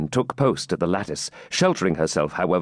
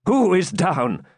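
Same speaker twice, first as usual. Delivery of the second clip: slow, higher-pitched urgent question; alarmed cry; 9 semitones higher, slower than usual. A narrator's reading. Wounded knight cannot see who fell, alarmed. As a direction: draw out the anxious question. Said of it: "cried Ivanhoe".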